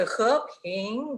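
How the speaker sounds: "he, ping" each climbing the full range; too intense rises. Shown as a demonstration. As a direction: overdo both rising tones in "he, ping". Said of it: "sonaría bastante intenso".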